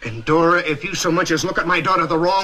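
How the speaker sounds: angry warning. Acted. Threatens mother-in-law over daughter.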